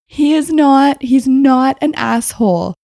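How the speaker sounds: laughing protest. Retold or imitated.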